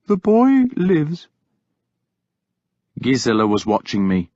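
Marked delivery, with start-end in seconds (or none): 0.0-1.3 high, slow gentle agreement; soft. Acted. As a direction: soothe him softly. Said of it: "Willibald said softly".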